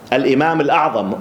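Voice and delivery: "Al-Imam Al-A'zam" with full Arabic article and throaty ayn; Arabic pronunciation. Shown as a demonstration. Lecturer restores the Arabic form after the accent, Arabic pronunciation. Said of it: "in Arabic we say".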